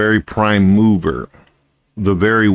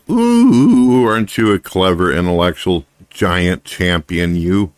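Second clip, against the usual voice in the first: sarcastic. Real, not acted. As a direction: sneer in fake admiration. Mocking the atheist's answer.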